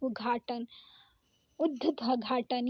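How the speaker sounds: उद्घाटन said slowly, द first then the aspirated घ; उद्घाटन को धीरे-धीरे, पहले द फिर घ; slow spelled-out pronunciation. Shown as a demonstration. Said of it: "तो पहले उच्चारण आता है द का". (उद्घाटन धीरे-धीरे, पहले द फिर घ बोलते हुए)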